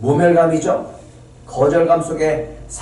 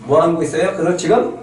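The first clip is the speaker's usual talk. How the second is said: ordinary delivery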